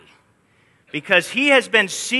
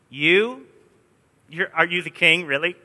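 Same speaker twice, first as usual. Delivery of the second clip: sarcastic. Retold or imitated. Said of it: "The context of the Greek language is sarcasm".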